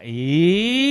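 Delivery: long rising "eee"; playful drawn-out squeal. Pretend. Seminar speaker teasing the audience, playful rising squeal. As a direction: stretch out a teasing squeal, climbing.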